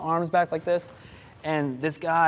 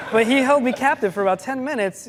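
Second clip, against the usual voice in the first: laughing; 8 semitones higher, 6 dB louder than usual. Real, not acted. Laughing while telling story.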